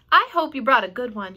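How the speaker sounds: a lightly voiced Charlotte; Charlotte's voice. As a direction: voice the spider kindly. Charlotte voiced in read-aloud.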